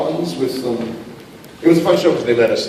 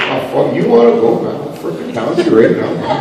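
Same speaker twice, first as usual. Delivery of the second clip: 1 Canadian Wolverine brawler. Pretend. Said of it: "It'll be over for".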